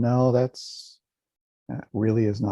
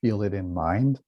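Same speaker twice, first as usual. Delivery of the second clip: calm, unhurried meditation guidance with long silences; guided meditation. Real, not acted. Teacher guiding listeners to relax and feel a smile, calm meditation voice. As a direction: lead them gently, leaving space after each instruction.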